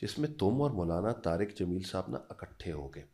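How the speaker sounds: mother foretelling her son's future, soft and low; mother's prophecy. Retold or imitated. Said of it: "تو اماں کہتی ہیں".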